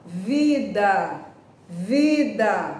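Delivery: teacher modelling the oral vowel in vida; careful oral demo. Shown as a demonstration. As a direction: sound out vida plainly to show no nasal hum. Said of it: "Não vibra o nariz".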